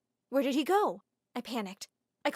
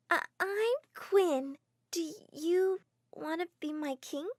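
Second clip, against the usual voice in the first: put-on smitten little girl; 7 semitones higher, slower than usual.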